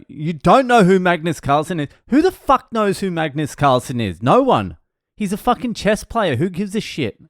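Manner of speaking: high, punchy comic outrage; mock incredulity. Comic reacts to crowd not knowing the chess player, mock incredulous.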